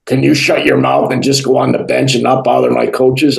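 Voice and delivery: gruff GM. Retold or imitated. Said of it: "He's really gruff".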